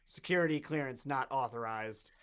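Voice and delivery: measured automated robot denial; robot refusal. Acted. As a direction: refuse like a machine, evenly. Robot refusing a player's question.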